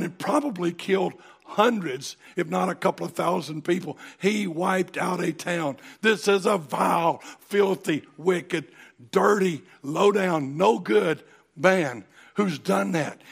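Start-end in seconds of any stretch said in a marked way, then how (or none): 6.0-13.2 each insult hit harder and louder; building preaching fervor. Real, not acted. Preacher thundering at the congregation about Doeg. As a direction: pile on the insults, rising in force.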